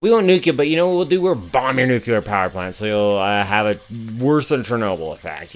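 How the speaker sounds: mock psychotic leader. Streamer voicing the leader's threat to Iran, mock-crazed. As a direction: imitate a leader blurting out threats. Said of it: "the psychotic person in charge is just like".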